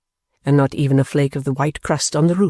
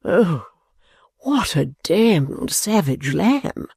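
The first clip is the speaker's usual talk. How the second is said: Mantalini crying out; 3 semitones higher, much slower than usual. Acted. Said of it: "cried Mister Mantalini".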